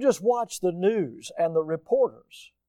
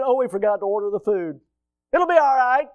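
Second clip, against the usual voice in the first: mock breezy excuse; 3 semitones higher, 5 dB louder than usual. Supply officer excusing forgotten food, mock breezy. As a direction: shrug it off in a raised voice.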